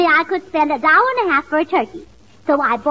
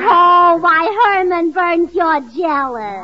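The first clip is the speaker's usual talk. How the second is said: mock scolding; 3 dB louder, much slower than usual. Gracie teasing jealous duck.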